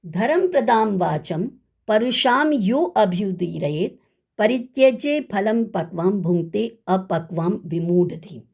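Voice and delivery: measured, chanted reading of a shloka; Sanskrit verse recitation. Acted.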